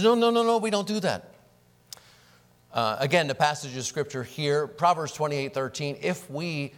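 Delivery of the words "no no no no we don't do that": louder, higher insistent no, no, no; Paul's forceful refusal; emphatic no. Retold or imitated. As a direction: shut the idea down firmly. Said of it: "He says".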